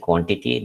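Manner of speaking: "quantity" stressed on QUAN; QUAN-tity, weight on the start; stress on first syllable. Shown as a demonstration. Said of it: "the first syllable stressed".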